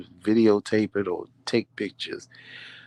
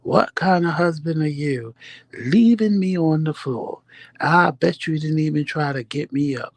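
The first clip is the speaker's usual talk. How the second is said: imitating husband's complaint; 5 semitones higher than usual. Husband complaining his wife left him on the floor, mock whine. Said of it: "I'm never gonna hear the rest of it".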